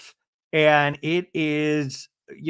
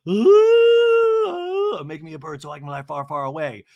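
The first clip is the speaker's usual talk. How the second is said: mock dramatic wish; 7 dB louder than usual. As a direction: ham up a diva begging to fly away. Gina's dramatic wish, voiced.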